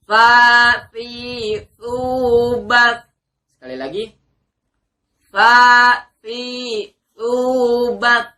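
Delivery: loud, high tsa syllables; makhraj drill. Shown as a demonstration. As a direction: drill them crisply. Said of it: "kita praktikkan makhraj huruf ta".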